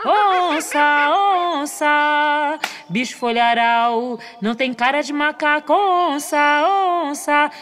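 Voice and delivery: lightly voiced monkey, taunting and singsong; monkey's mocking call. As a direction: tease the jaguar from far off. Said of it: "o macaco gritou". (macaco zombando de longe, levemente cantado)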